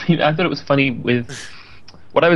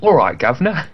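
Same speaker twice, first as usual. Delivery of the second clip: put-on Oliver Twist Irish accent. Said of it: "Irish accent was Oliver Twist".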